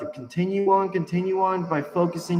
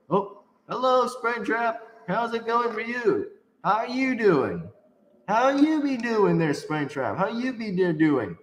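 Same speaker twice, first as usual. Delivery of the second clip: higher, sing-song hello to a foe; taunting, higher-pitched chummy hello; mock-friendly greeting; 5 semitones higher than usual. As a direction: greet the monster with playful taunting. Teasing greeting to Springtrap.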